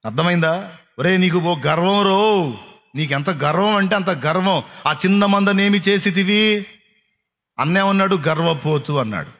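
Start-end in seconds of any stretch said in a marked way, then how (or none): 1.0-6.7 put-on slow, drawn-out taunt from an older brother; mock scolding. Older brother taunting young David, slow mocking scold. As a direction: sneer it slowly at the little brother.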